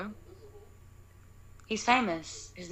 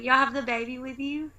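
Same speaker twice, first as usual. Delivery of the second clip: higher-pitched friendly question; smiling approach; 6 semitones higher than usual. Retold or imitated. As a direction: ask it with a customer-service smile. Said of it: "That's how I approach everybody".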